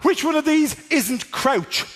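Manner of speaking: high, frantic panicked gamer; mock panic. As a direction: play a gamer panicking mid gunfight.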